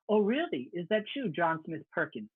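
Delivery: lightly mocked African warlord accent, slowing on the name; a hint of put-on African accent; imitated thick accent. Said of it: "he basically has this thick accent".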